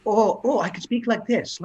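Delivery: imitating a posh southern English accent; Daniel's southern English accent. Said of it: "like Daniel".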